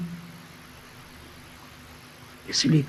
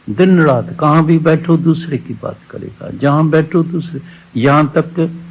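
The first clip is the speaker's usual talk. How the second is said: rising preacher rebuke; 5 semitones higher than usual. Acted. Preacher scolding gossip.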